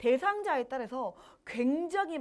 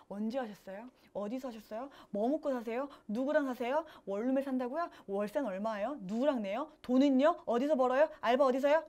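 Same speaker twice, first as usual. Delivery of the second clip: prying interrogation. Acted. Nurse grilling a runaway client with too many questions, prying interrogation. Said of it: "너무 꼬치꼬치 질문하는 거".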